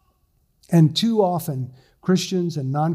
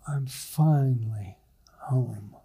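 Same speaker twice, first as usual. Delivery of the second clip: breathy whisper of relief, lower; exhaled whisper; 4 semitones lower, 4 dB quieter, slower than usual. Retold or imitated. Pastor imitates sinking into clean sheets, whispered. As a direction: sigh it out in a whisper, finally home. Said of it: "you just kinda exhale and you go".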